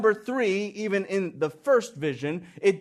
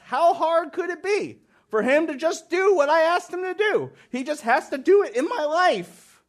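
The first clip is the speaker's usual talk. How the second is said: mock whiny prayer; 10 semitones higher than usual. Mocks a petulant prayer.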